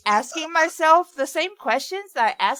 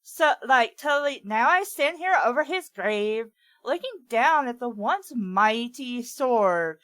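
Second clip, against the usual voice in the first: put-on valley girl. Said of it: "a Valley Girl accent".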